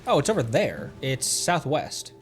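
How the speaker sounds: normal talking voice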